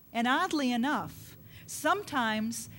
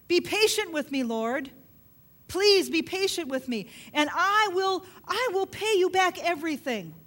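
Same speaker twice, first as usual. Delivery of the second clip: high, loud pleading; a servant begging his master for more time; 5 semitones higher, 3 dB louder than usual. Retold or imitated.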